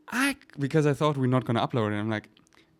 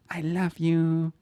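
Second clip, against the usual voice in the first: tender reassurance; 4 semitones higher than usual. Retold or imitated. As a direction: comfort her gently. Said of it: "I was like".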